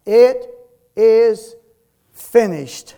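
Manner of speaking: loud, high cry of the dying Christ; cried out. A narrator's reading. Jesus on the cross crying out. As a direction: cry it out to the heavens. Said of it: "and He cried out".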